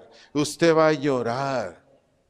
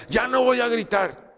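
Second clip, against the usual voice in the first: raised pitch mocking a weak promise; mock resolution; 8 semitones higher than usual. Preacher mocks a believer's empty promise, high mock vow. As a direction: playfully voice a naive vow. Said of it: "Usted no diga".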